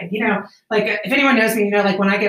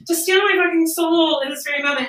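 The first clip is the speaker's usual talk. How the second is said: laughing; 9 semitones higher than usual. Real, not acted. Laughing through shaman soul story.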